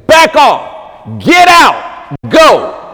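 sharp high shout at the devil; shouted rebuke. Real, not acted. Preacher rebuking the devil aloud, shouted high.

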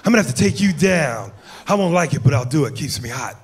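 a hint of Pacino's cop in Heat; Al Pacino impression. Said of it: "Robert De Niro in Heat".

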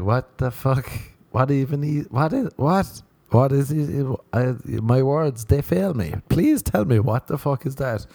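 mock outraged disbelief. Asking hot women their dream job, mock outraged disbelief. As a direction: demand an answer, flustered and pleading.

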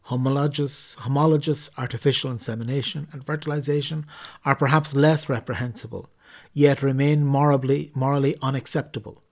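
measured, formal reading of a church document. Acted. Podcast host reading the Catechism to listeners, formal reading. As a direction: read it out like an official text, evenly paced. Reads Catechism text aloud.

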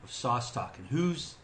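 big show-host build to the name; announcer intro. Acted.

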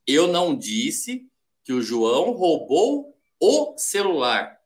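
slow, with "o celular" set apart; varied tone demonstration. Shown as a demonstration. Coach showing how tone changes interpretations, slow with stress on "o celular". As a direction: stretch "o" before "celular", slowly. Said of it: "falado com tons diferentes".

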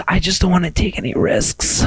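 a touch of a sexy purr; mock seductive line; sultry quote. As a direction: make it sound suggestive. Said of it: "Why did you make it sound sexual?".

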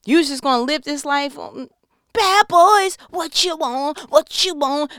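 talking to Jonah. Retold or imitated. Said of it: "sat with him and was like".

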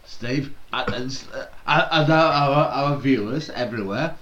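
slurred tipsy words. Real, not acted. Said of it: "He's slurring his words".

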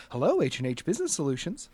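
quick, lightly voiced cheery receptionist; chipper receptionist. Receptionist answering a caller's phone call, lightly chipper. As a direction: answer the phone brightly and fast. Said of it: "a very chipper voice that says".

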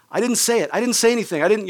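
high, quick self-protective protest; panicky denial. Retold or imitated. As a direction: plead innocence in a mock panic. Acting his cowardly frantic thoughts.

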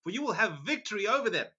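high, mocking sing-song yes; sarcastic. Micaiah mocks King Ahab's prophets, high sarcastic sing-song. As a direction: fake cheer, dripping with sarcasm. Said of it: "replied sarcastically".

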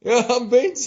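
high mock-tipsy echo; hammed-up falsetto, playing drunk; drunk nanny. Echoing the co-host's drunk nanny, in a high put-on voice.

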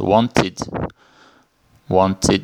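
Wanted repeated as "WON-tid". Shown as a demonstration. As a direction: say Wanted in two syllables with a short I before the D. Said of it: "como se tivesse um I junto ali". (Wanted com o ED soando como "id")

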